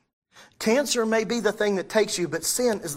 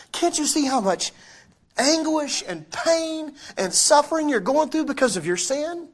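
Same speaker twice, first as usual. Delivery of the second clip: high, impassioned plea building louder; anguished exasperation; 10 semitones higher, 6 dB louder than usual. Retold or imitated. Jesus confronts people blind to sin's pain, impassioned reproach. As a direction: cry out in reproach, stretching the first questions. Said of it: "And Jesus, I believe, is looking at it going".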